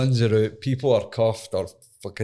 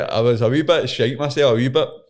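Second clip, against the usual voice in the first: usual speaking voice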